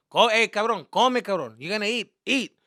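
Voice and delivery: high, loud parental order, acted out; bossy parent. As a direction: order a son to eat, loudly. Acted parent ordering son to eat.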